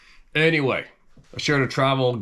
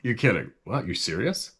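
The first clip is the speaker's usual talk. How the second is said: laughing disbelief at the bill; shocked disbelief; 3 semitones higher than usual. Retold or imitated. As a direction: tourist stunned by the beer bill, incredulous. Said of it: "I go".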